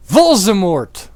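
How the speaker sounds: high, loud, slow shocked cry; hammed-up horror. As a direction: cry out in alarm. Everyone gasps at villain.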